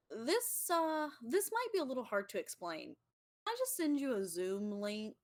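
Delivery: a lightly voiced awkward God; sheepish God.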